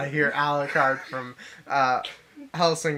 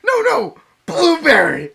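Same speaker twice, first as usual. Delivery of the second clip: much higher, louder, crying out with laughter; laughing outcry; 12 semitones higher, 9 dB louder than usual. Real, not acted. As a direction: shriek the name in disbelief. Friend cracks up at the name.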